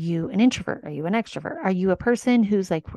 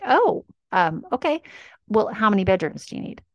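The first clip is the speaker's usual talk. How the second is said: flustered realtor voice; 3 semitones higher than usual. Retold or imitated.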